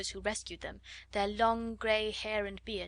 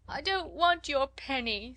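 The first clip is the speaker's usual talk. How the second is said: put-on higher, slow, louder sobbing child voice; 5 semitones higher, 4 dB louder, slower than usual. A narrator's reading. Little Lottie sobbing at Jessie's offered penny. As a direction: sob it out, refusing comfort. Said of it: "sobbed Lottie".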